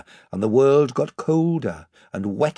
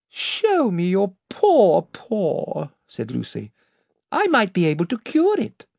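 put-on young girl voice; 7 semitones higher than usual. A narrator's reading. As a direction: coax it like a girl. Lucy voiced in the story.

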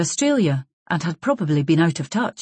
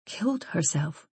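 hushed, much softer echo in disbelief; barely audible; 8 dB quieter than usual. A narrator's reading. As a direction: let the voice almost vanish. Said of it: "Barbara's voice was barely audible".

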